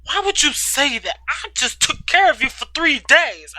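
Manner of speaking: rising yell of hurt. Acted. Katie to Ryder in closet, starting to yell. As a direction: start to yell back at him. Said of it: "I started to yell".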